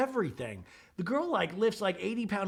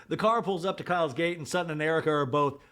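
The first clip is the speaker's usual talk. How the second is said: ordinary delivery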